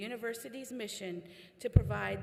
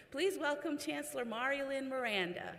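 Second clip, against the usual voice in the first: corrected name with an embarrassed laugh, a little higher; laughing correction; 5 semitones higher than usual. Real, not acted. Host fixes the chancellor's name, laughing.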